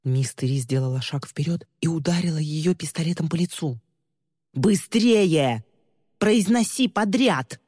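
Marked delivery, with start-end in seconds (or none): 4.5-7.6 harsh command. Acted. Villain commands after striking.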